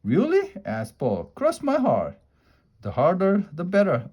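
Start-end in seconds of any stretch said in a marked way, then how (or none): 0.0-0.5 very high eager question; surprised. A narrator's reading. Paul surprised. 1.3-4.1 high, eager coaxing pigtail. A narrator's reading. Pigtail urging.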